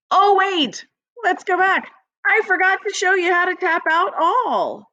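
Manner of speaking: high oh wait, caught a slip; surprised. Real, not acted. Teacher catches her own mistake.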